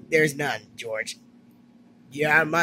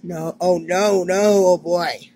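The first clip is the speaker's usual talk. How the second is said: dismayed; slower than usual. Acted. Dismayed as things go wrong.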